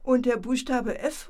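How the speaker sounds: eager impatient shout; impatient call. Acted. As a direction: call out, tired of waiting. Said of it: "ruft Paulchen ungeduldig".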